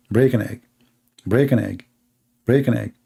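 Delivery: low, mechanical repetition like a skipping disc; stuck CD droning on. Retold or imitated. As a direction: drone it like a broken recording. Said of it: "The C D is still saying".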